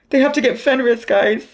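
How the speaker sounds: loud. Real, not acted. Reacting to the book.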